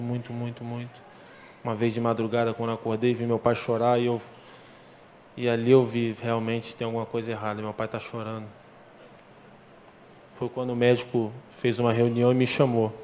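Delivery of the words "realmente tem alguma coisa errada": ordinary talk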